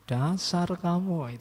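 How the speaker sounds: put-on stretched-out film Dutch accent. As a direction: imitate a film Dutchman speaking Indonesian, drawn out. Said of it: "itu Indonesia cuma pakai dialek Belanda".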